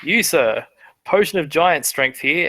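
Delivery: lightly projected sales pitch; hawker calling out. Acted. Merchant offering the same vial to a passerby, hawker calling out. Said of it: "you hear him call out to this".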